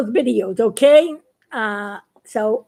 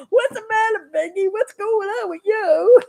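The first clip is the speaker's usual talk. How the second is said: mission control voice; 7 semitones higher than usual. Acted. Mission Control asks Biggie.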